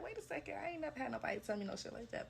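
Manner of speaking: high-pitched, disbelieving outburst; indignant, rising disbelief, a touch fast; shocked disbelief. Retold or imitated. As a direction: squeak out your shock at the insult. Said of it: "I was like".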